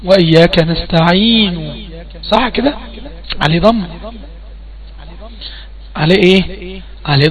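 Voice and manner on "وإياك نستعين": slow, measured Quranic recitation; drawn-out chanted verse. Shown as a demonstration. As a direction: recite it slowly with tajweed. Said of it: "عليه إيه في المصحف".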